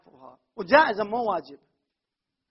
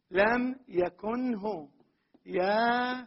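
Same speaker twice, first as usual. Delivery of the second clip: slow repeat; 3 dB quieter, much slower than usual. Shown as a demonstration. Teacher repeating the example slowly for students. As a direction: lay out لم يكنه very slowly, each syllable apart. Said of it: "مثلًا نقول".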